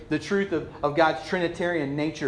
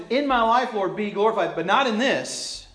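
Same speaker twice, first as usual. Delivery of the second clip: half-hearted devotion; 5 semitones higher, 3 dB louder than usual. Acted. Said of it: "in the back of our minds".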